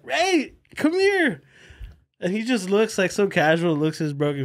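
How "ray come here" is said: calling out. Retold or imitated. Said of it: "So I was like".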